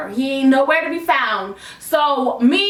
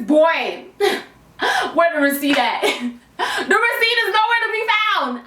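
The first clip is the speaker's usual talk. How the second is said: laughing; 3 semitones higher than usual. Real, not acted. Laughing over the lost receipt.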